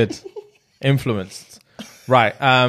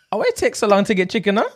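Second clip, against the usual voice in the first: mock Jamaican accent; 7 semitones higher, faster than usual. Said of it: "What is that?".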